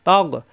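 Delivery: তগ with the G from the end of the throat. Shown as a demonstration. Teacher showing learners the ghain in তগ, throat-end G. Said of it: "কন্ঠনালীর শেষ অংশ থেকে".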